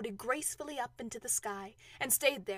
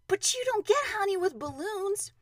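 high, loud protest of disbelief; lightly acted incredulous boy; puzzled objection; 9 semitones higher, 5 dB louder than usual. Boy objects to Pooh's plan.

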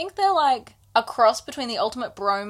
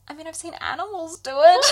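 laughing; 8 semitones higher, 4 dB louder than usual. Real, not acted. Laughing through Amren quote.

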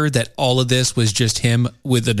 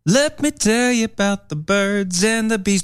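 ominous announcer; 7 semitones higher than usual. Pretend. Ominous birds and bees line.

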